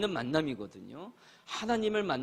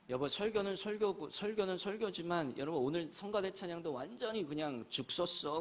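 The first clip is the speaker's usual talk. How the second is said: higher, lightly voiced wife grumbling; a hint of a nagging wife chiming in; complaining wife; 4 semitones higher, 5 dB quieter than usual. Wife chiming in on husband's complaints, lightly voiced higher grumble. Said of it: "그 엄마도 한마디 거들어요".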